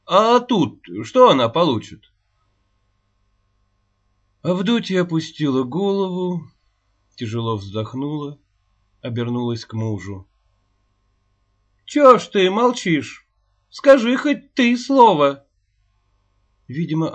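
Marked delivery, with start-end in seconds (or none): 0.1-2.1 a louder, higher challenging question; heated. A narrator's reading. Heated argument for schooling. 11.9-15.4 much higher and louder, slow pleading cry; desperate plea. A narrator's reading. Wife begs silent husband.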